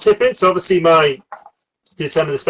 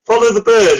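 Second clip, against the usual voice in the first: higher, louder grand pronouncement; mock mystical wizard; 8 semitones higher, 6 dB louder than usual. Podcast host imitates the wizard commanding, mock mystical. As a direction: intone it like a mock-solemn sorcerer. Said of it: "be all kind of mystical and say".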